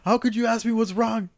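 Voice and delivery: high, strained, laughing mock sob of the dad; mock crying dad. Colorblind dad answering his daughter, in a high mock sob. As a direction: squeak it out like a weepy father in pretend tears. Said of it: "he's like".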